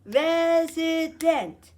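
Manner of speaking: "Resident" loud and slow in three beats, res, i, dent; split into syllables. Shown as a demonstration. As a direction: stretch each syllable of "Resident" for counting. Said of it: "How many syllables?".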